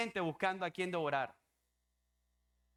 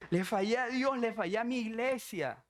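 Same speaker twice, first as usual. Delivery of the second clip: higher-pitched mock-crying wail; imitated tearful confession; 5 semitones higher than usual. Woman confesses failing God and church, imitated crying. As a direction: confess it as if through tears.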